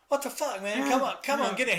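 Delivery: high, mock exasperated yell; imitating an annoyed bandmate shouting. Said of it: "he's like".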